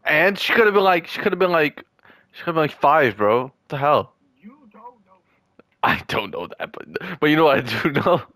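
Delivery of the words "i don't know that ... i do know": whispering. Real, not acted. Teasing his teammate in a sly whisper.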